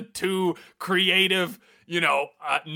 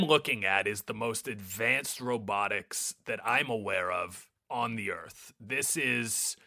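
low, soft, awed verdict; hushed and serious; 7 semitones lower, 8 dB quieter than usual. Acted. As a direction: speak quietly in awe. Earnest robotics verdict.

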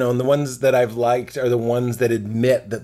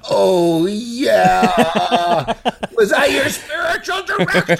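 smug self-mockery; 6 semitones higher, 3 dB louder, much slower than usual. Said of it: "of course I was like".

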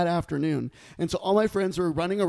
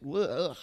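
disgusted ugh; 6 dB quieter than usual. Retold or imitated. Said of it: "he's like".

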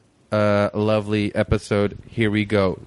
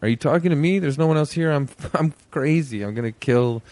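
higher, mock tough-guy De Niro; hammed-up Taxi Driver mirror rant; Robert De Niro impression; 3 semitones higher than usual. Podcast host mocking De Niro's mirror scene, hammed-up. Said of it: "when Robert De Niro in Taxi Driver is like".

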